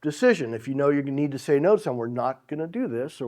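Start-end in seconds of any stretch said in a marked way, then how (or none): 2.0-3.2 softer, understated refusal; gentle but firm. Acted. Saying no without provoking a worse reaction, gently firm. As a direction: say no quietly, with mild firmness. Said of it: "That's a firm decision".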